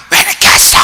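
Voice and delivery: loud mock-crying outburst; tearful wail. Wife to late-returning husband, mock tearful wail. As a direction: wail it loudly, acting out the tears. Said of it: "하면서 울고 막 때리고".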